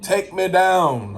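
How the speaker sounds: rising, pleading cry to the Lord; hammed-up prayer; mock desperate prayer. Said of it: "You gotta like".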